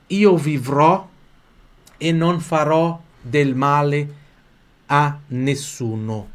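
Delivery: slow, careful Italian line for learners; slow model reading. Shown as a demonstration. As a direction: spell out each word slowly. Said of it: "só vocês".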